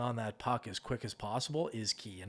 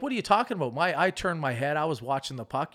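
high, loud disbelieving protest; mock outraged goalie; 3 semitones higher, 5 dB louder, faster than usual. Goalie blaming the coach after a goal, mock outrage. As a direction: play the goalie who swears he watched it. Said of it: "I'll get in these big arguments".

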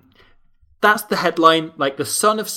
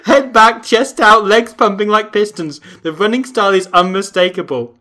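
louder, hammed-up dramatic article read; mock-dramatic reading; 3 semitones higher, 6 dB louder than usual. Reading the article's purple prose aloud, mock-dramatic. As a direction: read it like overblown sports prose.

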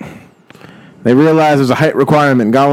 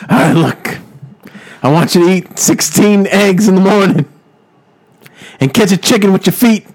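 rough attempt at a wrestler voice; a loose wrestler impression, giving orders; Macho Man; 3 semitones higher than usual. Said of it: "I'm gonna do a horrible impression".

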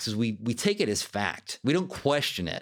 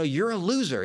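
a higher, mock-harsh critic's jab; harsh inner critic; 5 semitones higher than usual. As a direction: lightly play the harsh inner voice. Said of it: "It's harsh".

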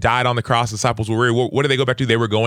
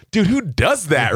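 higher, slow, incredulous teammate voice; amused teammate; 8 semitones higher, slower than usual. Retold or imitated. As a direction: play the laughing guy baffled at him. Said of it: "He's like".

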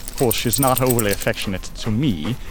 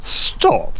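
much higher, coy protest; high bashful stop; 4 dB louder than usual. Acted. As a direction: squeal it out, flustered. Dog embarrassed by praise.

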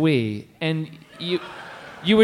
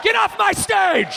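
mock shout; 13 semitones higher than usual. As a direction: shout him off the stage. Mock ejecting a co-host.

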